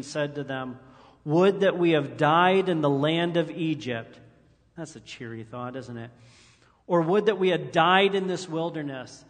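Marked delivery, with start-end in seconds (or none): 1.2-4.2 loud, whiny grumble of the Israelites; mock complaint. Preacher voicing the grumbling Israelites, loud mock wail. 6.9-9.2 loud, whiny grumble of the Israelites; mock complaint. Preacher voicing the grumbling Israelites, loud mock wail.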